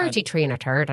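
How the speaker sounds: attempted Irish on the th sounds; badly faked Irish; bad Irish accent. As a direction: put on a poor Irish accent. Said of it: "I just can't do Irish".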